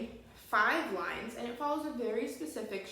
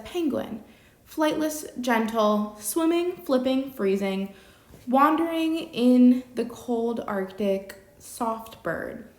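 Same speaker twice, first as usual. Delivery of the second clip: poem reading; 2 semitones higher, 9 dB louder, slower than usual. Shown as a demonstration. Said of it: "So it says".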